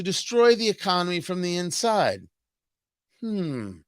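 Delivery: lightly hint at a pious TV host pondering; mock Brian Stelter. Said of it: "See, a Brian Stelter impression".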